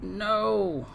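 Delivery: high triumphant cries; excited cheers. Real, not acted. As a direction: celebrate the catch. Catches the mysterious man.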